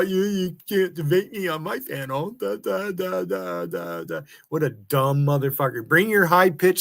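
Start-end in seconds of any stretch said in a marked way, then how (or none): 0.0-4.2 mocking imitation. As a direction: parody him as a whiny debater. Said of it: "you're always saying to people".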